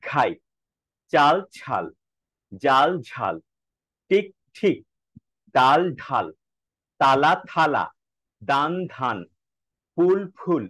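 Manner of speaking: each pair said slowly, the second word with a strong puff of breath; আঠা said with a clear breathy ঠ; unaspirated then aspirated pairs. Shown as a demonstration. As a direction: contrast the plain and the breathy consonant in each pair. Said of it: "এগুলো কিভাবে চর্চা করব?".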